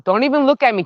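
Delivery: high, loud playful telling-off; mock scolding. Real, not acted. Gardener warning a chicken off, high loud scolding. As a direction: raise the voice sharply at a pest.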